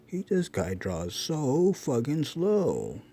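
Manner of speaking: drawn-out mock complaint; swooping, slow jeer; mocking viewer. Artist voicing a critic of his drawing, slow mockery. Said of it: "don't talk like this".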